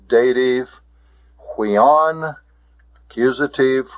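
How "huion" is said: "huion" said alone as a model; pronunciation demo. Shown as a demonstration. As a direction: model "huion", lifting the second syllable. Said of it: "The pronunciation of this".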